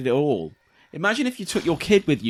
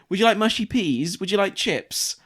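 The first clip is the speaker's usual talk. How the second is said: higher mock shop-assistant offers; eager upsell in a sing-song voice; bright customer service lilt; chirpy server; 7 semitones higher than usual. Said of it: "they're going".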